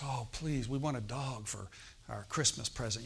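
soft, low little plea; child begging parents for a dog, softly; begging children. Retold or imitated. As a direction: beg gently like a kid at Christmas.

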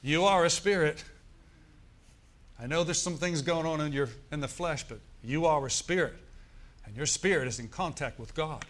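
a pastor stopping a worldly chatterer, loud and urgent; urgent loud interruption. Pretend. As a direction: stop them short and call them out loud. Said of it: "You feel like saying".

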